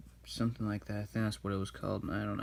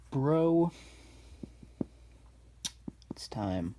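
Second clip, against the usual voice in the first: hushed farewell; 4 semitones higher, much slower than usual. Retold or imitated. Oogway dying farewell.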